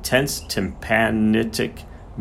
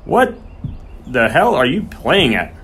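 bellowed rebuke; 5 semitones higher than usual. A narrator's reading. Groom berates horseman holding the horse, bellowing. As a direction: explode at him on the first word. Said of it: "he bellowed at the horseman".

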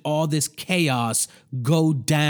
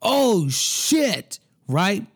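shocked mixer guy; 5 semitones higher, much slower than usual. Retold or imitated. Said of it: "he's like".

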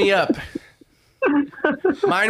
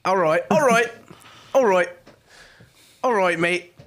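put-on wobbly British accent that slips toward Australian; practicing a mock English accent; attempted English accent. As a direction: try out a bad British accent. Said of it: "What happened to my English accent".

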